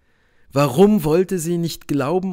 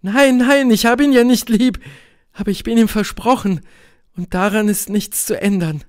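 high, loud, then slightly easing; vehement protest; 8 semitones higher, 5 dB louder than usual. A narrator's reading. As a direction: protest fiercely, voice pitched high. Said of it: "rief sie heftig". (heftiger Widerspruch, hohe Stimme)

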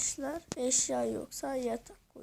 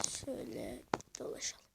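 hushed, toneless whisper; 13 semitones lower, 9 dB quieter than usual. Real, not acted. Gamer wandering his built village on camera, whispering. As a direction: drop the voice to pure breath.

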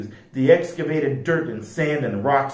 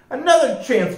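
high-pitched hopeful exclamation; bright-eyed storybook plea; eager cry; 11 semitones higher, 3 dB louder than usual. A narrator's reading. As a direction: cry out keenly, voice jumping up. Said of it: "cried Bea".

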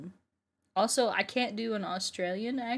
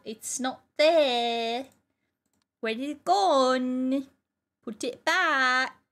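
mock demand; 3 semitones higher, 6 dB louder, slower than usual. Calling out a vanished object.

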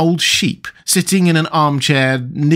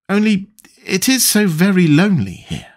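wistful, higher-pitched lonely lament; melancholy; 7 semitones higher than usual. A narrator's reading. Alice feeling lonely in the wood, melancholy. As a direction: say it high and sorrowful. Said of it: "in a melancholy voice".

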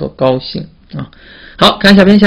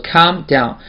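read-along modelling. Shown as a demonstration. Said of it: "读一下".

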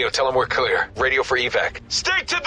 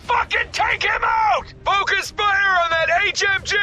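combat shout. Acted. Squad leader to his men under fire, shouting. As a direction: yell the order over gunfire. Firefight, ordering squad to shoot.

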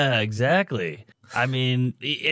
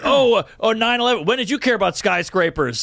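mocking quote; 6 semitones higher than usual. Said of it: "it's like".

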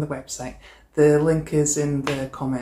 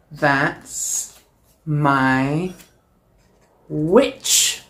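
monster voice; much slower than usual. Acted. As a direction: claim her like a big beast. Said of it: "says a monster".

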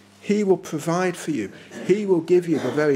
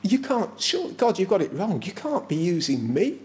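imitated fearful disbelief, pitched up at first; trembling fear; 4 semitones higher than usual. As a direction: protest timidly, as if God picked wrongly. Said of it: "trembling. There's a genuine fear".

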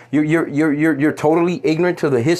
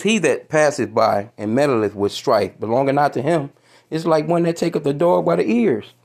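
scripture reading. Acted. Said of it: "Yeah, it says".

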